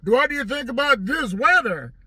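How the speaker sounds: chatty man asks about weather in a mock voice; mock small talk. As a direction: draw out the dull question. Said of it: "He's like".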